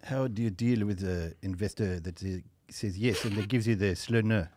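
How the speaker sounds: put-on slow, half-hearted French accent; a failed attempt at a French accent; bad French accent. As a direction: ask it in a weak French accent. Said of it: "that wasn't a good French accent".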